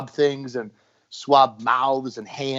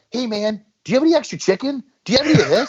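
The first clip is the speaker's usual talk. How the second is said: much higher, laughing plea for chicken; mock begging friend; 8 semitones higher, faster than usual. Friend begging the prepper for chicken, laughing high mock plea. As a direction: squeak out the request like a desperate friend.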